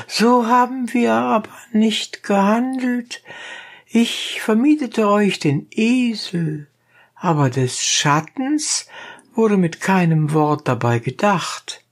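high, rough peasant voice; donkey driver. A narrator's reading. Donkey driver challenging the dentist, high and blunt.

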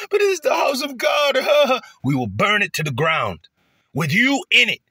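hammed-up enemy shouting threats; cursing Jake out. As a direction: scream the threat at him. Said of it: "they just gonna be cursing Jake out".

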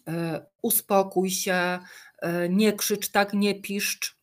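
put-on slow, even, soothing mother talking to a screaming toddler; slow and gentle, never raising it; mother calmly soothing her toddler on the tram, slow and even; calm mum voice. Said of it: "mama spokojnym tonem głosu".

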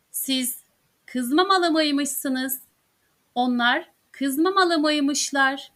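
very slow, each syllable laid out clearly; slow drill pronunciation. Shown as a demonstration. Turkish teacher modelling the drill for students, very slow and clear. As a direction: spell it out slowly for learners. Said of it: "teacher models conjugation drill slowly".

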